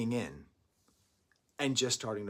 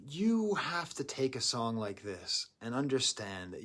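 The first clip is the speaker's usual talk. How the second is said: whisper. Acted. Intimate advice to viewers.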